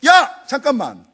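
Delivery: loud, slow call of a furious father; a father yelling wait; angry father calling out. Retold or imitated. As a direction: stop him in his tracks. Father stops the son.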